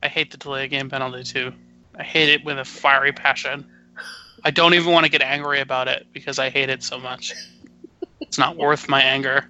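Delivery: restrained, even-toned irritation; trying to be monotone. Real, not acted. Fed-up panelist on the penalty he hates, trying to be monotone. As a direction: hold the anger down in a monotone. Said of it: "You were trying to be monotone".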